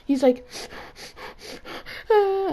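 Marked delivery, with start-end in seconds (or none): 2.1-2.5 mock yelp. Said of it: "and starts yelling".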